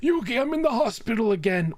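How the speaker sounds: lightly voiced grandpa, pitched high; mock grandpa. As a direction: play a put-upon old grandpa. Acting Grandpa calling Yugi.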